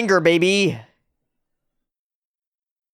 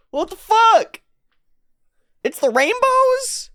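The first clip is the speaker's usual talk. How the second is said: stunned outburst, pitched way up; baffled. Real, not acted. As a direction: blurt it in real confusion. Baffled by rainbow mechanic.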